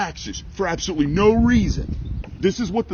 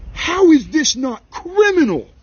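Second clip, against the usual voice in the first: higher and louder, slow and outraged; angry demand; 10 semitones higher, 5 dB louder than usual. Retold or imitated. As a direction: hammer the question home, furious and slow. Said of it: "I told her, I was like".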